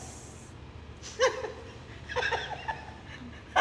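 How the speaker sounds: drawn-out breathy chuckle, mostly voiceless; scoffing laugh. Acted. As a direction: laugh off the accusation under your breath. Laughs at being called jealous. (তাচ্ছিল্যের চাপা হাসি)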